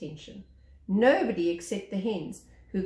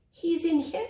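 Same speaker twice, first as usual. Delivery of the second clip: little bird voice; 8 semitones higher, 4 dB louder than usual. Acted.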